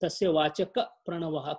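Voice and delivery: "Vachaka" closed with a p into "Pranavaha"; model pronunciation. Shown as a demonstration. Teacher correcting a student's verse, "Vachaka" linked as vachakap to "Pranavaha". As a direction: say "Vachaka" as vachakap, leaning into the Pra. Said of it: "when you pronounce it with little deeper pronunciation".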